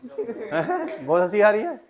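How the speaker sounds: laughing along. Real, not acted. Student laughing during demo.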